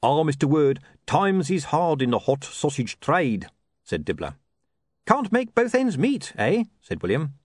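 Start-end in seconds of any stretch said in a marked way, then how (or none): 0.0-3.5 lightly voiced gloomy seller; Dibbler's voice. 5.1-6.6 slow, high, teasing quip; lightly voiced pun he can't resist; William's joke.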